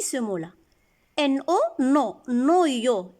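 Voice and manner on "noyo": "Noyo" with a plain O, as no-yo; wrong reading. Shown as a demonstration. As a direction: mispronounce "Noyo" as no-yo, no wa sound. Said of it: "Est-ce qu'on dit noyo? Non".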